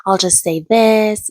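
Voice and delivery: imitating her in a hushed whisper. Vlogger mimics Gypsy's plan, whispering. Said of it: "And she's like".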